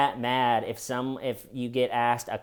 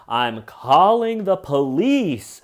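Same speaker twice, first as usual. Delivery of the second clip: louder, higher, slow outburst; hammed-up panic; mock yelled threat; 4 semitones higher, 8 dB louder, slower than usual. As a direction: yell it like a panicked victim. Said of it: "he goes through the".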